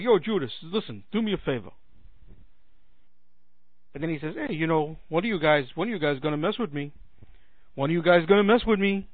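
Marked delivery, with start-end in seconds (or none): 0.0-1.7 matter-of-fact Brooklyn buddy talk, lightly done; Jesus. Acted. Jesus turning to Judas, casual Brooklyn accent. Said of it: "that Jesus had a Brooklyn accent". 4.3-9.1 lightly put-on Brooklyn accent; mild Brooklyn tough-guy challenge; Jesus. Jesus asking who will mess with him, light Brooklyn accent. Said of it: "that Jesus had a Brooklyn accent".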